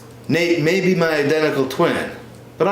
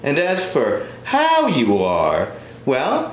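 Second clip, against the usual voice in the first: mom voice; 6 semitones higher than usual. Acted. Son's parent on the phone.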